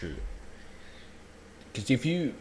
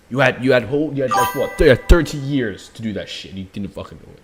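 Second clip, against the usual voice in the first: louder, heated scolding; angry rant; 5 dB louder than usual. Real, not acted. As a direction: tear into the parents. Streamer ranting at the parents.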